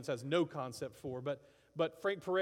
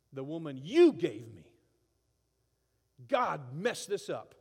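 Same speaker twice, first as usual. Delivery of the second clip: loud, slow blaming accusation; hammed-up resentful outburst; lashing out; 9 dB louder, slower than usual. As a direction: throw the blame at God. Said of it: "he's lashing out".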